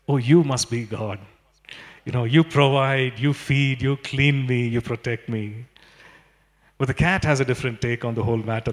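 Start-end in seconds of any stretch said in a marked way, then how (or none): 0.1-5.7 lightly voiced adoring dog, grateful and humble; a hint of a devoted dog praising its master. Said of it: "The dog looks and says".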